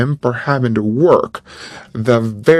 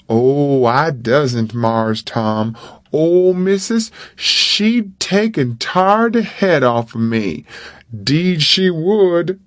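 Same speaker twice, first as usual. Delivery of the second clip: lightly voiced boy, worried; scared of the mistress, insisting; a hint of a frightened boy; Jim's fearful voice. Jim fearing Missus.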